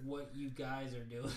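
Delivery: slow, over-careful "you guys" with a laugh; corrected speech. Retold or imitated. Correcting himself to her friends, slow careful "you guys", amused. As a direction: spell out "you guys" slowly instead of y'all. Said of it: "I corrected myself".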